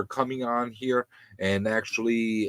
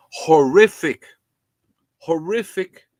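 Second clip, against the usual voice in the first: emphatic; 5 semitones higher, 8 dB louder, slower than usual. Real, not acted. Condemning the practice.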